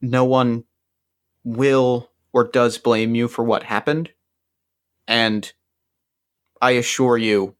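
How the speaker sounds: hardened earnest. Acted. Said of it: "my features kind of harden".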